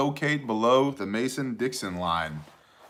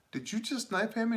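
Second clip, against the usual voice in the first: mock disbelief; 11 semitones higher, 8 dB quieter than usual. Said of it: "And I was like".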